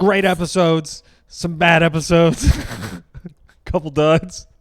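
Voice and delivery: high goofy voice, slow and drawn out; silly put-on voice. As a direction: ham it up in a funny voice. Jokey put-on voice.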